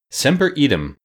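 high, pompous pronouncement. A narrator's reading. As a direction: intone the Latin self-importantly. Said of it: "explained the Wogglebug pompously".

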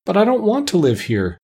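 put-on high-pitched, mildly upset girl's plea; high, pleading objection; crying out in protest. A narrator's reading. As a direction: read it as a child's protest, pitched well up. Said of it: "cried Dorothy".

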